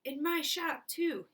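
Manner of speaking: high, loud excited yell. Acted. Shopkeeper to everyone, yelling high and loud. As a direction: yell it out in triumph. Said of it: "he yelled".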